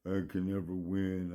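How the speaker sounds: slow, mildly sulky loser voice; imitated sulking. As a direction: mope through it slowly, mocking a sulker. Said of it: "just walking around sulking".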